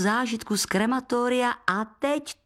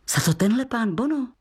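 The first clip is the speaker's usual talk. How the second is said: usual speaking voice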